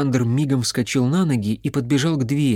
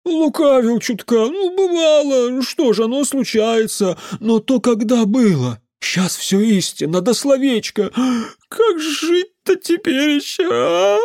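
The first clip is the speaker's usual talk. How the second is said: put-on the drunk uncle tearfully pleading with the mage; tearful drunk whine; 11 semitones higher, 4 dB louder than usual. A narrator's reading. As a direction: whimper it out like a wronged drunk. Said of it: "слезливо прогудел он".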